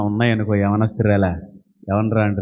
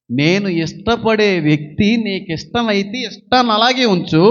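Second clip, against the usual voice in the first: earnest prayer; 5 semitones higher than usual. Acted. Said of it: "ప్రార్థన ఇది".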